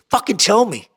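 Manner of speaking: insistent mock command on TELL; retold insistent demand. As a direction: press them to confess, acting out the boss. Boss pressing harder, said second time.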